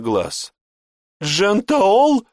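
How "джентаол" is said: much higher, louder startled cry; shocked cry. Acted. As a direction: cry out the name in disbelief. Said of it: "вскрикнул Жбаш".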